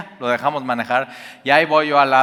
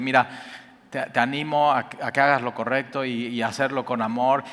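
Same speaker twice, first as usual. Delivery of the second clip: softer, gentle urging; gentle encouragement; 5 dB quieter than usual. Retold or imitated. Parent hugging a teen and encouraging him, soft and gentle. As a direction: encourage them softly with love. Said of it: "abrazarlos y decirle".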